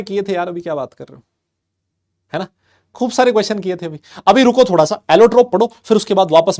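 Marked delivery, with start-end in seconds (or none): 4.3-6.6 loud playful hold on. Real, not acted. Teacher hushing eager students.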